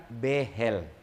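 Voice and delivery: P=A; Javanese pronunciation. Retold or imitated. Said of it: "orang Jawa, eh, bilang".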